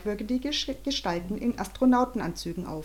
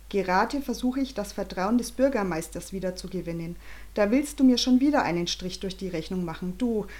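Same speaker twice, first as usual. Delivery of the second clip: put-on lively storybook reading for kids; story narration. A narrator's reading. Narrator reading to children, lively storybook voice. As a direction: read the chapter to children at bedtime.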